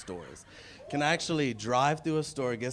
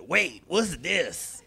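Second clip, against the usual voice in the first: slow, drawn-out, then a higher loud "oh shit"; security lady; 4 semitones higher, 4 dB louder, much slower than usual. Retold or imitated. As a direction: play the startled airport guard. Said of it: "this big black Creole lady, she said".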